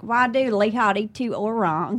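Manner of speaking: slow mock Indonesian, lightly done; distorted Indonesian. Sisters chatting in garbled Indonesian, slow and light. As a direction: imitate the sisters' broken Indonesian. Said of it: "they'll be like".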